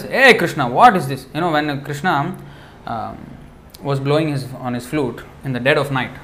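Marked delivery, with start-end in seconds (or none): 0.0-1.3 acted scolding, pushed louder; chastising gopi. A gopi confronts Krishna, mildly acted scolding. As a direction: call him out in mock reproach. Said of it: "when the gopi chastises".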